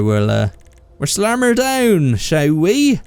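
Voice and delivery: mock Devon farmer accent, drawn out; a lightly hammed-up West Country voice. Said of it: "That's definitely, uh, not a Russian accent. That was a, uh, a Cornwall or Devon or s-, s-, West Country".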